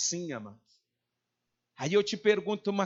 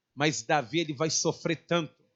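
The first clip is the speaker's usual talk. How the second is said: ordinary delivery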